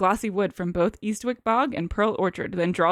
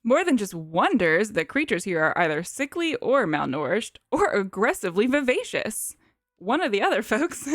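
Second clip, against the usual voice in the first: lightly drawled Southern professor; professor character. Acted. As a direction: address them as a folksy Southern professor. Plays the professor.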